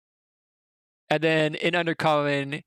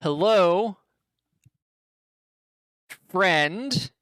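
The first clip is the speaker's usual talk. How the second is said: goblin greeting; 3 semitones higher, much slower than usual. Acted. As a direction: greet the strangers like a slow, odd goblin. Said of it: "you hear the goblin".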